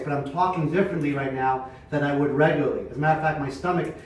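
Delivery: booming diaphragm projection, slowing down; loud projected voice. Shown as a demonstration. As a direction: fill the room from your stomach. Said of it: "So when I talk real loud".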